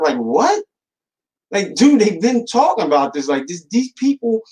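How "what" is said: a squeaky mock "What?", jumped far higher; a hammed-up shocked yelp. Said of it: "they all shocked".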